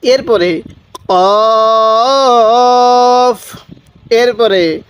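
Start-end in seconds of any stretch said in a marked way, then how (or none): 1.1-3.6 কফ with a short rounded o, not কাফ; correct pronunciation. Shown as a demonstration. Teacher correcting viewers: কফ with a short o, not কাফ. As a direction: say কফ firmly with a short o, never a long a. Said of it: "মনোযোগ সহকারে পড়বেন".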